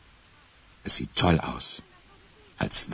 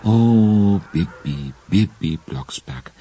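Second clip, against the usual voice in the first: exasperated sigh; 4 semitones higher, 4 dB louder, much slower than usual. A narrator's reading. Narrator sighs over Bibi.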